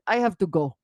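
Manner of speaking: light mock Russian accent. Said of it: "I was speaking in a Russian accent".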